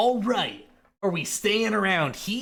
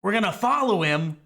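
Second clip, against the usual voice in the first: loud sharp voice; 3 semitones higher than usual. Acted. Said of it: "why are you yelling?".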